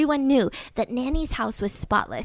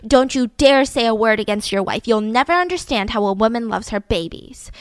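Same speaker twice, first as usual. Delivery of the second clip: snapping; 3 dB louder than usual. Retold or imitated. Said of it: "would snap at him and say".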